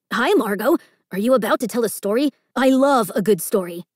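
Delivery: bright, eager greeting; a keen kid hoping for a story; eager storyteller. Acted. Storyteller greeting Margot, eager and friendly.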